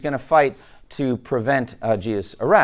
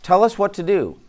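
loud, high-pitched eager angels; eager readiness; 7 semitones higher, 10 dB louder than usual. Acted. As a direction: report for orders, loud and high. Voices angels awaiting orders from Jesus.

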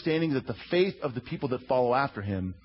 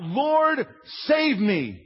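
higher, louder cry for help; cried out; 8 semitones higher, 4 dB louder, much slower than usual. A narrator's reading. Peter sinking, crying out loudly to his Lord. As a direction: call out as the waves take him. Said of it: "He cried out".

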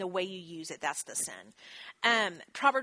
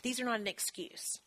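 whispered warning; 5 dB quieter than usual. Real, not acted. Warning aside to audience.

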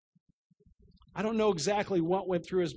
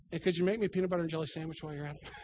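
mock patient's quick request; 4 dB quieter, much faster than usual. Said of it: "I'm the worst patient in the world".

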